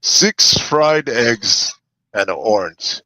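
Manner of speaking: slow lightly voiced Arnold Schwarzenegger; Arnold impression. Host reads the breakfast post, a mild Arnold voice. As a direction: draw out the fried eggs like Arnold. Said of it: "we need an Arnold guy".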